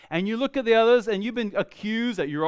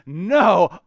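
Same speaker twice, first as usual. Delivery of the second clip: loud, slow, doubling down; emphatic; 2 semitones higher, 7 dB louder, slower than usual. Acted. Peter doubling down to Jesus, loud and emphatic. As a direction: plant your feet and swear it. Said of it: "But he said emphatically".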